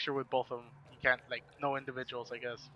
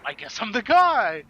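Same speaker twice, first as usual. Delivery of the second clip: sheepish; 8 semitones higher, 10 dB louder than usual. Retold or imitated. Sheepish reply, retold.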